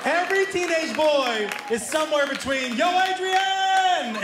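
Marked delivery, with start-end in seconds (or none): 2.8-4.2 high, slow shouted Yo Adrian; Rocky impression. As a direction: bellow it like Rocky Balboa.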